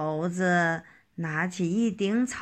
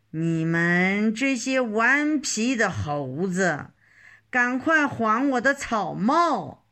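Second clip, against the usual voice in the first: mildly raised, telling off cheeky monkeys; angry scolding. Acted. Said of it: "指着猴子们大声说".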